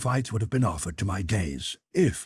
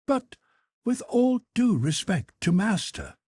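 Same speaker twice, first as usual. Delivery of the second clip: higher, deferential manservant voice; Conseil the servant; 12 semitones higher than usual. Acted. Servant Conseil respectfully objects to his master, in a higher voice. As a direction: play the polite valet objecting gently.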